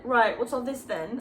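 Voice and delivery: light mock British accent, half-hearted; a hint of a British copper accent. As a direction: toss off a jokey British accent. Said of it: "The accent is getting worse".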